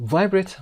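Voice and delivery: VIBRATE pitched high from VI; American stress on VI. Shown as a demonstration. Teacher labels it American, stress on VI in VIBRATE. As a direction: lean on the first syllable of VIBRATE, American style. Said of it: "امریکنش هست".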